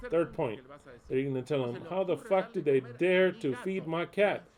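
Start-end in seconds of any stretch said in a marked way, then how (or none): 1.8-4.4 retold outrage. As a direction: spell out each angry word to the neighbors. Angry message for the neighbors.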